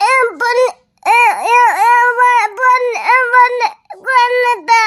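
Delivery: slow, broken crying over the killing; wailing grief. Acted. Ghost grandmother telling the travellers her daughter was killed, wailing. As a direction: sob out each word, stumbling.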